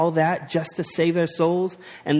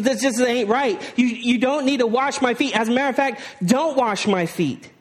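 Peter protesting; 4 semitones higher than usual. Acted. Preacher voicing Peter's protest.

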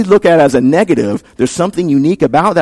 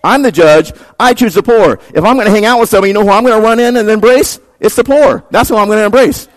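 lightly voiced God, higher and emphatic; God speaking; 7 semitones higher than usual. Preacher speaking as God choosing the poor, higher emphatic declaration. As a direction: declare the choice with rising force. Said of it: "God says".

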